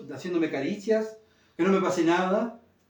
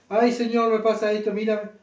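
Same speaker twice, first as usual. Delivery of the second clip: raised, louder whiny prayer to the Lord; self-pitying prayer; 5 semitones higher, 4 dB louder than usual. Pretend. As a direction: pray like a poor-me complainer, pitched up. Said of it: "pobrecito de mí". (oración quejosa, más aguda y fuerte)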